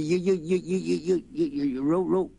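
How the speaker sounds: high, urgent stuttered you-you-you; a boy desperate to warn; frantic stammer. Acted. Boy stammering to warn Mister Charlie of fire.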